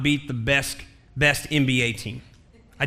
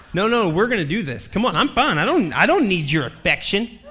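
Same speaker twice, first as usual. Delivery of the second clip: hammed-up defiant wife, pitched up; defiant insistence; 3 semitones higher, 4 dB louder than usual. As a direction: brush off the comfort, lively and insistent. Hurt wife insists on playing on.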